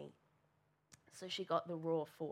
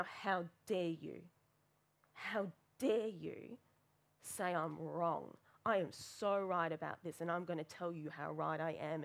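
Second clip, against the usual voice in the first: angry retort. Retold or imitated. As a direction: drag out how dare you. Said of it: "she got the full force".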